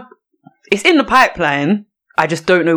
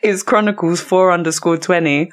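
talking with water in mouth; water held in mouth. Real, not acted. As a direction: wet mouth from a retainer. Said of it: "I feel like there's bare water in my mouth".

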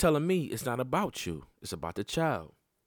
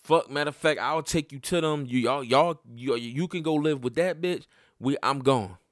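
pissed off; 3 semitones higher, 4 dB louder than usual. Retold or imitated. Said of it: "I'm pissed".

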